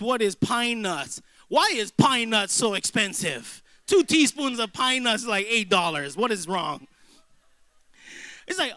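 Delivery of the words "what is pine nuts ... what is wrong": mock outrage at the price. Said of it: "I'm like".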